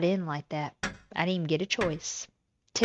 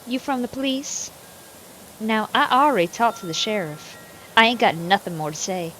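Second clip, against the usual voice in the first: reads the farm wife with a light Southern country twang; Southern country accent; 2 semitones higher, 3 dB louder than usual. Acted. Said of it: "I am country today".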